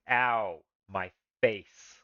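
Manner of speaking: loud, hammed-up yelp of pain; mock pain. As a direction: play at being punched, loudly. Reacts to goblin's punches.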